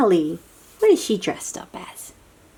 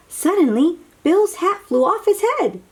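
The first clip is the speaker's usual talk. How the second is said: much higher, louder, thrilled; excited reveal; 10 semitones higher, 4 dB louder than usual. A narrator's reading. Reader hitting the big moment for kids, excited. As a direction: burst out with the surprise. Climax of spooky scene.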